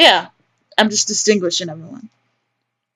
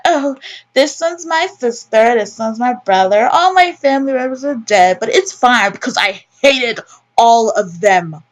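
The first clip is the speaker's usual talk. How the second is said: lightly hammed-up, playful mimicry; mock pretending aunt; 3 semitones higher than usual. Player imagining great aunt roaming the tombs, lightly hammed-up mimicry. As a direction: put on a bit of lilting make-believe.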